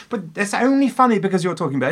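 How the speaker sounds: high, fast words through real laughter; laughing while talking. Real, not acted. Laughing at a friend who quoted a comedy sketch. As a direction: laugh your way through the line.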